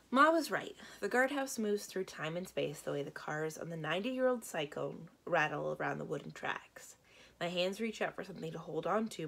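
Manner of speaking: steady read-aloud narration; story narration. A narrator's reading. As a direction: read it like a children's book.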